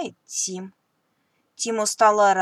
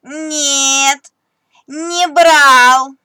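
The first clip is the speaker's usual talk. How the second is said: higher, louder little squeak of a fib; 6 semitones higher, 14 dB louder, much slower than usual. Acted. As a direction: squeak out the denial like a small mouse. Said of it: "пискнул Тим". (тоненький писк мышонка)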